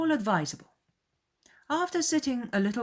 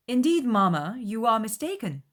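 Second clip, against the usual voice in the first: higher, hurried correction; gently rescue the situation; embarrassed daughter; 6 semitones higher, 5 dB louder than usual. A narrator's reading. Elizabeth correcting her mother, a touch embarrassed. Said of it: "blushing for her mother".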